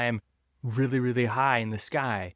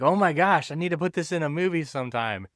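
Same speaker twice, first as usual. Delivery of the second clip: raised, eager gasp of inspiration; excited; 5 semitones higher than usual. Retold or imitated. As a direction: blurt it like a sudden idea. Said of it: "He's like".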